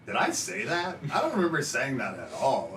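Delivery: lightly acted bewilderment; mock disbelief. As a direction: play baffled at your own words. Imitating own puzzled reaction to episodes.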